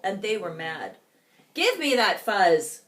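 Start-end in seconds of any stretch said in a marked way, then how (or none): 1.5-2.8 loud, gruff grab for the fuzz; a squabbling prairie dog snapping; angry demand. Acted. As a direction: demand it like a bully. Angry prairie dogs quarrel.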